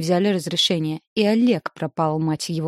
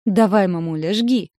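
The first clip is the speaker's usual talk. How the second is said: put-on bubbly sorority girl; 2 semitones higher, 5 dB louder than usual. A narrator's reading. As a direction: cheer her on, bouncing. Squealing daughter cheering mom.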